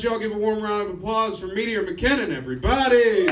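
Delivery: emcee introduction. Real, not acted. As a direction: bring the next act on to applause. Host brings comedian on stage.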